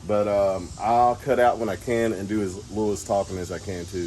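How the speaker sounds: wind on mic. Real, not acted. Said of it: "I'm sorry for the wind noise in this video".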